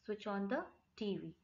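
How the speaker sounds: said slowly and clearly; slow it down for learners; slow teacher demo; slow model phrase. Shown as a demonstration. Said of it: "common sentence है".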